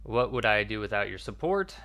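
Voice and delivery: mock-grateful, lightly sarcastic. Officer answers the captain who warned her, sarcastic. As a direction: pretend gratitude with a sarcastic edge. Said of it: "it was very sarcastic".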